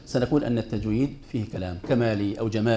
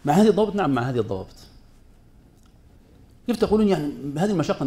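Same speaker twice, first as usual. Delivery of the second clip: ordinary talk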